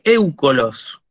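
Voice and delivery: éucolos stressed on the opening E; stress on epsilon. Shown as a demonstration. Teacher reads next word, first-vowel stress. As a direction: hit the E of the diphthong in éucolos. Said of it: "Pronuncio el acento sobre la épsilon".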